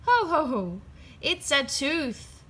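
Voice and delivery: a lightly voiced laughing dad. A narrator's reading. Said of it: "laughed Daddy Pig".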